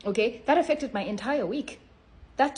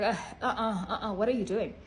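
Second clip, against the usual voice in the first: chuckling uh-uh, what are you doing; laughing refusal. Pretend. Voicing her body rejecting ten biscuits, laughing. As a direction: play your body refusing, amused. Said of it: "My body was like".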